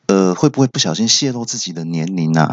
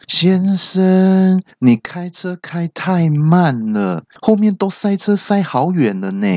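impatient stranger; 10 semitones higher, slower than usual. Retold or imitated. Stranger complains about slow driving.

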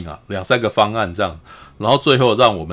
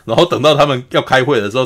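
usual speaking voice

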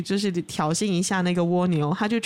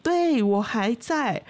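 slow, unhurried snail reply; drawn-out and calm, a snail that is in no hurry; 3 semitones higher, much slower than usual. Acted. Snail answers the eagle from below, slow and calm.

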